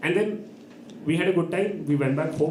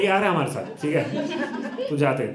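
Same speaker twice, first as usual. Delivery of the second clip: laughing mimicry; much faster than usual. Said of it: "and they're like".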